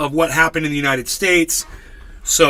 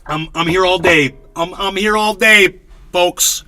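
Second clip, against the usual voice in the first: comedian patter. Pretend. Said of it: "You guys like that one?".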